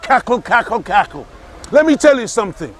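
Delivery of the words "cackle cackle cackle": lower, spoken mock witch cackle. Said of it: "cackled like a witch".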